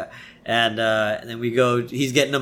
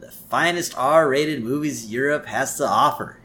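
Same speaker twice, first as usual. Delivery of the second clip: raised, salesy infomercial host; put-on TV presenter voice; Troy McClure; 3 semitones higher than usual. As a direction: pitch it like a promotional tour. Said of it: "he starts the tour".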